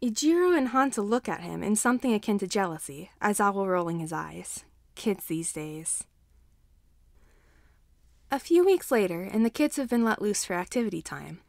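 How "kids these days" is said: slow, whispered weary grumble; tired whisper; whispered aside. A narrator's reading. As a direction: mutter it under your breath, unimpressed. Narrator's exasperated aside.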